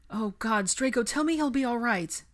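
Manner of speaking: high, urgent plea; pleading. A narrator's reading. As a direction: beg for reassurance, distressed. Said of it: "Pansy pleaded".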